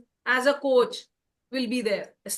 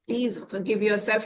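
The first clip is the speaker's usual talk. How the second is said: gentle plea; 3 semitones lower, much slower than usual. Shown as a demonstration. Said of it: "There are days when you don't exercise".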